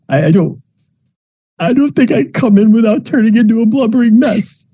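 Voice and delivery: very high, wobbling on the edge of crying; squeaky, nearly blubbering; teary mom. Acted. Mom at the gate about to burst into tears, squeaky high. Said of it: "She's like".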